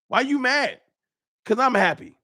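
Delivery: mock-innocent high taunt. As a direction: needle him in a high, singsong voice. Mocking the angry fan.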